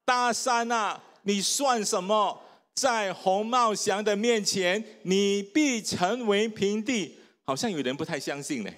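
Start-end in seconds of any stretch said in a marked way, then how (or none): 0.0-7.2 group recitation. Shown as a demonstration. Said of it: "来，一二三".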